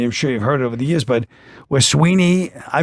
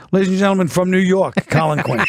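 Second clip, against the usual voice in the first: stage announcer; 3 semitones higher than usual. Retold or imitated. Imitating a stage introduction.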